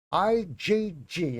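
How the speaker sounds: slow, droning Boston professor; imitating monotone professor. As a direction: drone it out like a dull lecturer. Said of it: "he had this voice where he talked like this".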